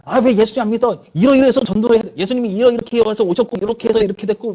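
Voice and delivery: high, loud, exasperated lecturing; mock angry preaching at a passerby; irritated arguing. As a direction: imitate a street evangelist losing his temper at someone. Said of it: "막 승질을 내면서".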